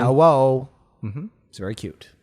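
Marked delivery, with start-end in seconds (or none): 0.0-0.7 put-on baby's hello. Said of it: "how my baby, uh, Elliot says it".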